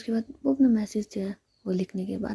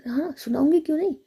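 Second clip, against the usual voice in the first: angry retort; 6 semitones higher, 5 dB louder than usual. Acted. Friend snaps back.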